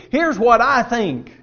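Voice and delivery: a hint of proud Naaman; mock self-assured. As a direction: puff up with your own opinion. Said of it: "preconceived notion".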